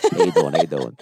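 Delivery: low New York tough guy; deep Staten Island greeting; Staten Island accent. Pretend. Staten Island homecoming kid voice.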